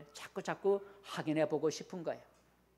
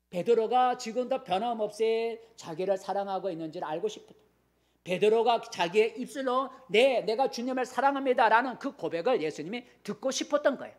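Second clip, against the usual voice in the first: preaching at full force; 5 semitones higher, 6 dB louder than usual. Real, not acted. Preaching climax, raised voice.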